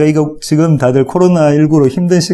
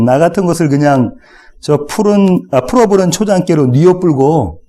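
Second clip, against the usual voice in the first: Jeolla dialect; 4 semitones higher than usual. Shown as a demonstration. Pastor showing the congregation Psalm 23 in Jeolla accent. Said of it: "전라도 버전인데요 ... 한번 읽어보겠습니다".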